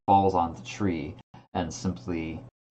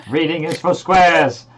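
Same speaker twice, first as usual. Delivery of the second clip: mocking voice; 10 semitones higher, 11 dB louder than usual. Mocking voice joke.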